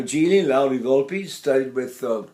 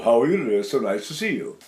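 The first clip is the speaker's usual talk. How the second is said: low placed speech; 4 semitones lower, faster than usual. Shown as a demonstration. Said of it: "speak down in my".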